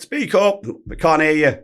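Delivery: high-pitched shout from the crowd; retold audience yell; heckler calling out. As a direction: call up to the stage, imitating a heckler.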